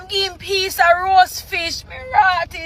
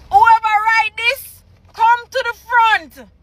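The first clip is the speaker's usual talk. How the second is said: higher, more forceful mock call-out; insistent mock summons; 6 semitones higher, 4 dB louder than usual. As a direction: demand the culprit step up, exasperated. Repeats the summons, escalating.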